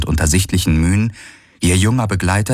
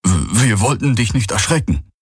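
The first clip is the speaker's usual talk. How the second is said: nervous stammer; 4 semitones higher than usual. Acted. Young servant stammers.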